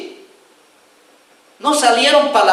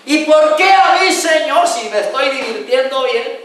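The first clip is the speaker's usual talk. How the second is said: mock whining; 5 semitones higher than usual. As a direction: pretend churchgoer complaining, aggrieved. Mock reply to God.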